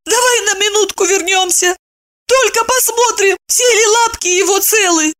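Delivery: high imploring woman's voice; pleading. A narrator's reading. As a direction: beg him tenderly. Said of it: "взмолилась она".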